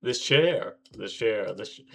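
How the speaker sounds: mocking repetition. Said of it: "is he gonna say it again".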